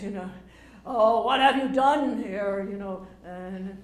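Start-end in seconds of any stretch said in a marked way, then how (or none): 0.9-2.7 slow, loud, grand stage delivery; booming tragic line. Retold or imitated. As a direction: declaim it like a great Shakespearean actor. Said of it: "you say this".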